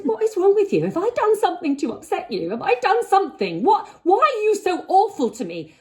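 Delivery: pleading, losing control at the colleague; hammed-up tearful yell; retold outburst. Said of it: "And I lost it".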